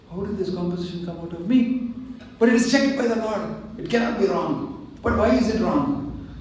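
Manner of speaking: a learned man shaken by his own error; disturbed scholar. Retold or imitated. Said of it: "He got really disturbed".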